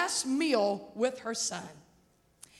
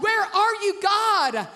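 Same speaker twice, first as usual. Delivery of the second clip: anguished cry; 4 semitones higher, 3 dB louder, slower than usual. Retold or imitated. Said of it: "that you wonder".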